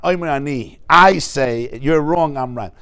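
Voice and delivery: a firm, insistent "Omer ani", pushing that you're wrong; assertive claim. Shown as a demonstration. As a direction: lay it down like you're sure you're right. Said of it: "It's not".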